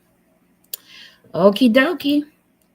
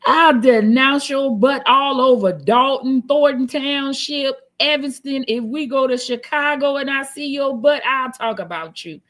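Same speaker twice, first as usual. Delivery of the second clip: raised, higher mock-outraged declaration; mock denouncing; 4 semitones higher than usual. Streamer playing someone denouncing a partner town by town, mock-indignant. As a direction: proclaim it with playful force, easing off toward the end.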